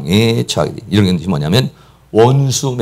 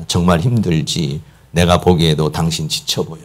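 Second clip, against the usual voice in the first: gentle empathy; 6 semitones lower, 4 dB quieter than usual. Shown as a demonstration. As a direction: console a tired wife quietly. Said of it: "옆에서 이렇게 대화를 해줍니다".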